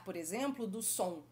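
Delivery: normal talking voice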